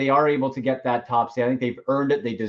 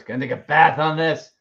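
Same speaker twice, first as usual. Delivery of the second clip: lightly voiced cartoon clown; a hint of a cartoon clown voice; Krusty the Clown voice. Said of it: "Krusty the Clown Simpson's voice".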